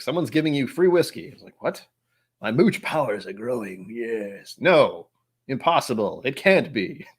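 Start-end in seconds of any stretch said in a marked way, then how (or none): 1.6-7.1 inner voice. Retold or imitated. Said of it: "That's the other part of my brain".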